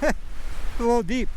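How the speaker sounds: chuckling, slow and amused; laughing. Real, not acted. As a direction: laugh through the words. Laughing at deep snow.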